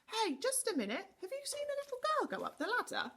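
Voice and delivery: high calling voice shouted down a ladder. A narrator's reading. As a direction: call out to someone far below. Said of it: "he called down to the goblin".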